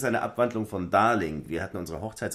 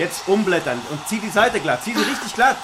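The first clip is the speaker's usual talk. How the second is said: calling loudly; 11 semitones higher, 10 dB louder than usual. Acted. Ruft laut Anweisungen.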